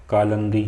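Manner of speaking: "कालंदी" with a short a in the middle; wrong form "कालंदी". Shown as a demonstration. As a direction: say "कालंदी" with "lan", no i before the n. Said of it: "कालंदी ऐसा नहीं लिखा था".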